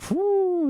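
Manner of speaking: very high, sustained "whoo"; high airy hoot for a mic picking up everything; long, high-pitched whoo; imitated whoosh. Imitates sound of other microphone.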